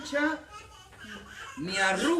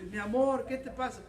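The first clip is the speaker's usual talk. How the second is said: gentle husband; 3 semitones higher than usual. Retold or imitated. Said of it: "y tú vas a decir".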